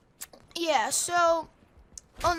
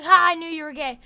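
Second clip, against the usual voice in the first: gloating; 8 dB louder, faster than usual. Retold or imitated. Gloating at Clay's post.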